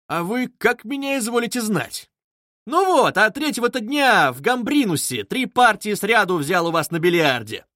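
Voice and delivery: put-on chatty young fellow; lightly voiced young man. Young man reminding Koch of billiards, lively.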